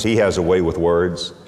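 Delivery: ordinary talk, nothing marked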